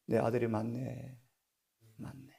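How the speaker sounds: soft words, fading almost away; Mary's hushed acknowledgement; quiet acted realisation. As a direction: say it softly to yourself. Mary's quiet realisation, voiced by preacher.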